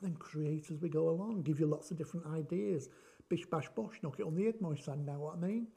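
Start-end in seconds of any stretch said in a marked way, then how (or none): 3.3-5.7 light mock Cockney patter; understated Cockney banter. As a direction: slip into a jokey Cockney geezer. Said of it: "I've gone all cockney".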